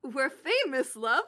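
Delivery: put-on amateur British boy-band voice; hammy British accent; bad British accent. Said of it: "do a bad British accent".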